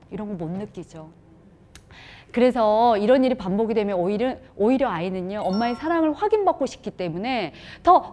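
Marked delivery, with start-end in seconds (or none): none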